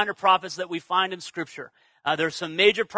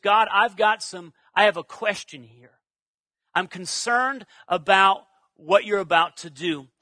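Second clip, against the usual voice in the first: measured, respectful questioning; gently raised objection; not arrogant. Retold or imitated. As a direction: voice a humble concern, unhurried. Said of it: "language with God that's not arrogant".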